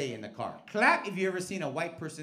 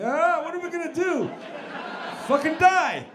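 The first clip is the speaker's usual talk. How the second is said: high, loud squawking puppet voice; shrill cartoon puppet yelling; Muppet impression; 14 semitones higher, 9 dB louder than usual. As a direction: screech it like an old Muppet. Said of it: "Like those old Muppets that said".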